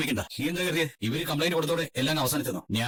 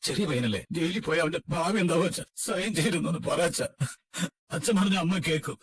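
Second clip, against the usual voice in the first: tearful pleading. Acted. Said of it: "കരയാതെ ചേച്ചി".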